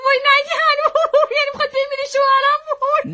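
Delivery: high, comic wail with laugh-like sobs; hammed-up wailing. Wife fears to the doctor her husband will die, comic wailing.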